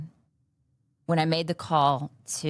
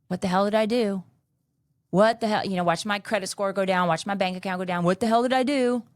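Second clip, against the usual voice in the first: exasperated outcry; 3 semitones higher, 4 dB louder than usual. Retold or imitated. Despair on kitchen floor retold.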